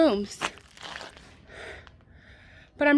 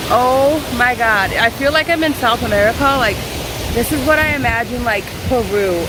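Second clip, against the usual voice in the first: amazed; 7 dB louder than usual. Real, not acted. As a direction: gush at the scenery. Amazed at the view.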